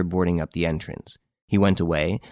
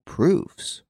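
loud voice; 10 semitones higher than usual. A narrator's reading. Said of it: "replied Renine in a loud voice".

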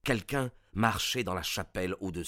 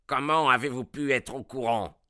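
louder, shocked outcry; shouting; 4 semitones higher, 5 dB louder than usual. A narrator's reading. Baronet crying out after seeing the corpse uncovered. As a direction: cry it out while reeling back. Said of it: "cria-t-il".

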